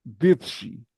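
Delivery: "বেপসি" with b instead of the first p; mock Arabic "বেপসি". Shown as a demonstration. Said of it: "পেপসিকে বলে".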